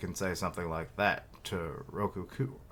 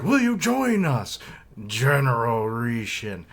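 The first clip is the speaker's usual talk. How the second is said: hammed-up invitation; 2 semitones higher, 6 dB louder than usual. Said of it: "And it's like".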